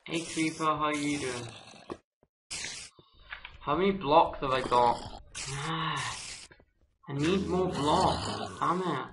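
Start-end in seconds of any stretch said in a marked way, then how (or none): 5.0-6.3 frustrated sigh. Real, not acted. Running short of blocks.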